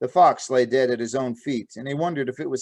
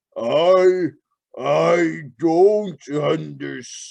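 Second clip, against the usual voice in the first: bewildered, lost, throaty mumble; 4 semitones higher, 4 dB louder than usual. Narrator reads a dying bear's last words, in a bewildered throaty mumble. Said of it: "it mumbled in its throaty voice".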